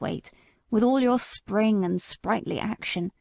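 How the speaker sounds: put-on calm the young mare like a kindly elder; a hint of a gentle old horse comforting; old Sir Oliver soothing.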